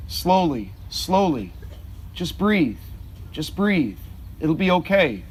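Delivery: calm her down gently, like a father. Retold or imitated. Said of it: "he just said to her so gently".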